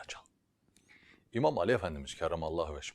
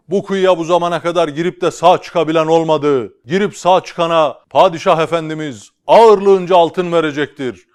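town crier; 8 semitones higher, 19 dB louder than usual. Acted. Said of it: "tellal devam ediyor. Diyor ki".

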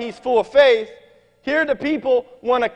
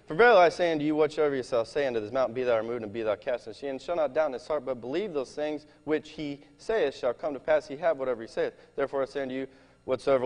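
quick, soft Bible reading; scripture reading; 8 semitones lower, 8 dB quieter, faster than usual. Acted. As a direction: read the verses fast, under your breath. Reads scripture aloud.

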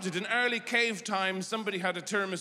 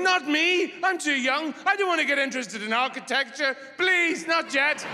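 mock panicked pleading; 7 semitones higher than usual. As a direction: beg not to board, half-screaming. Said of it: "everybody gets on resisting, going".

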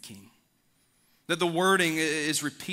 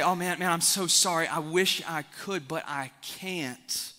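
apologetic invitee; 2 semitones higher than usual. Acted. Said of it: "And they say".

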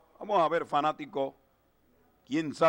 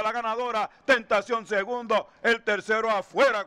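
excited race call; 4 semitones higher than usual. Real, not acted. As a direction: ride the home stretch with mounting excitement. Home stretch, finish of race.

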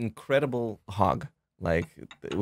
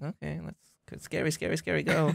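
high coaxing; 8 semitones higher, 5 dB quieter than usual. Retold or imitated. Urging bear to look scary.

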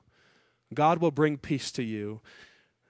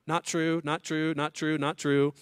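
normal talking voice

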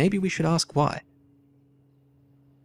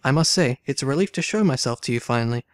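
dramatic story reading. A narrator's reading. Player reading game dialogue aloud, lively character reading. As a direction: voice the valet's protest, then the lady's demand. Voicing valet and thief.

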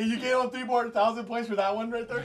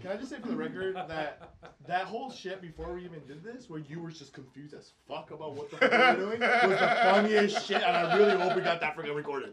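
laughing. Real, not acted. Laughing recounting funny moment.

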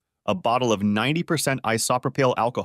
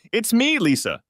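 much higher, tearful; sobbing to her mother on the phone; high crying voice; 12 semitones higher, 3 dB louder than usual. Acted. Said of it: "Lisa cried".

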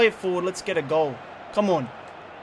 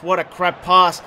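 "What a crap pass" again, louder and slower, each word hit; louder repeat; 5 dB louder, slower than usual. Real, not acted. Gamer yelling at his player's bad pass, louder repeat. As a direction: blurt it out in disgust the second time.

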